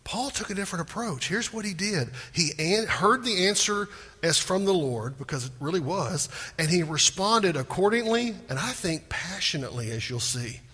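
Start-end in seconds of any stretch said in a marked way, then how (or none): none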